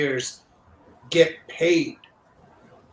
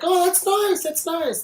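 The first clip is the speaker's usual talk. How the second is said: much higher, dismissive mock wife voice. Husband imitating his uninterested wife, high and dismissive. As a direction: brush it off like a bored wife. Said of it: "And she's like".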